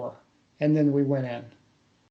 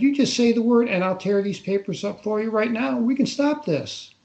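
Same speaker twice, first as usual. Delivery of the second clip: mock sweet offer; 5 semitones higher than usual. Officer pretending to let him off, mock-sweet. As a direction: sell the fake kindness a bit over the top.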